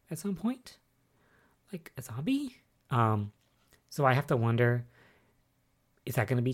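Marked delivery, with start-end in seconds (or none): 0.1-2.6 whisper. Real, not acted. Spooky aside about the zombie.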